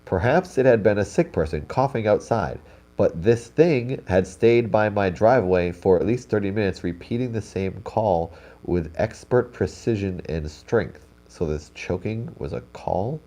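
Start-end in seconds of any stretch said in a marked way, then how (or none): 0.0-11.1 louder, more emphatic re-read. Shown as a demonstration. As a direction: read it again with more punch. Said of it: "Let me read, read this".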